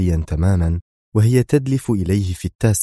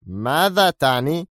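angry; 7 semitones higher, slower than usual. A narrator's reading. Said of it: "انعقد حاجبا زيلمان في غضب".

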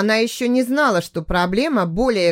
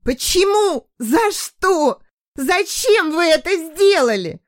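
screaming; 9 semitones higher, slower than usual. A narrator's reading. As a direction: scream in anguish. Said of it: "продолжала кричать".

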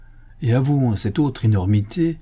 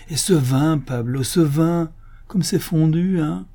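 higher-pitched, emotional rapture; tenderly moved; 4 semitones higher than usual. Acted. Gourmand tells his majordomo he eats again, moved and rapturous. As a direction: marvel over every mouthful. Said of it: "s'écria d'une voix attendrie".

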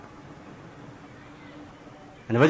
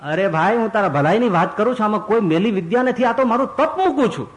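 coaxing ascetic; 6 semitones higher than usual. Acted. Ascetic persuades father.

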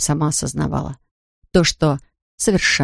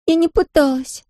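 tearful; 10 semitones higher than usual. A narrator's reading. Daughter sobbing in his arms.

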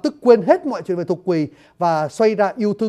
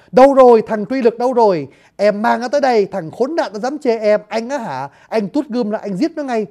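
a louder, hammed-up jealous bluster; mock furious threat; 2 semitones higher, 4 dB louder than usual. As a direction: bark at the absent rival in mock rage. Thích Nhân threatens rival. (giận dữ giả vờ, quát to đầy ghen tuông)

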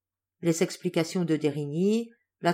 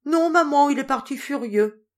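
put-on child's voice; 7 semitones higher, 5 dB louder than usual. Child answers mother.

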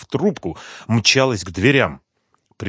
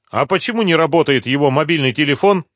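lightly voiced woman, higher and louder; a hint of a doubtful woman; suspicious question; 7 semitones higher, 6 dB louder than usual. A narrator's reading. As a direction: probe the caller. Rimma questions caller.

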